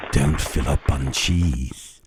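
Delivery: slow, low mom voice; scolding parent voice. Acted. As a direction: scold like a mother at dinner.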